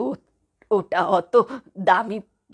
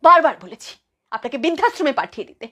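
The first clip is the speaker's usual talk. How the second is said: fast, higher-pitched angry outburst; angry complaint; 4 semitones higher, 4 dB louder, faster than usual. Acted. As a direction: snap it out, fed up. Threatens to send her away.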